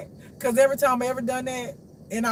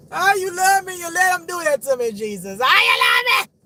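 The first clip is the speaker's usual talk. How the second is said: high, loud outburst at God; indignant shouting; 9 semitones higher, 8 dB louder than usual. Retold or imitated. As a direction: shout the accusation, building to a yell.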